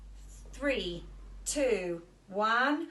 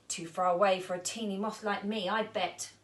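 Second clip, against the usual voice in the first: sad. Acted. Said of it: "said Molly sadly".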